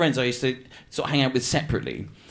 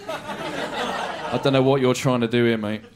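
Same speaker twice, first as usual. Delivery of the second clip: snooty spell checker; 3 semitones lower, slower than usual. Acted. Spell checker sneering at his typing, slow and sniffy. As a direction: drag it out like a smug machine.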